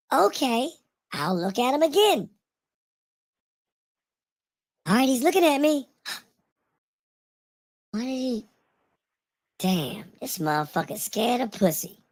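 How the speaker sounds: woman's voice. Acting out what a woman says at a club: imitating a woman talking. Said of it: "And then she's saying".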